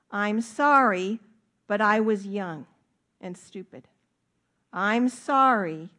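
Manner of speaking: fake apology. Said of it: "sort of apology".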